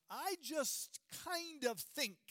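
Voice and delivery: a hint of a timid, unsure voice; mock a hesitant speaker, slowly; wussy hedging. Preacher mocking a wishy-washy Paul, mildly timid. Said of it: "something wussy like".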